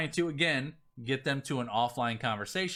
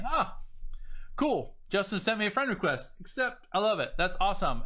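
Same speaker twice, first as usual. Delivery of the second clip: pleased prospect; 5 semitones higher than usual. Retold or imitated. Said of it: "he gets a friend request from me".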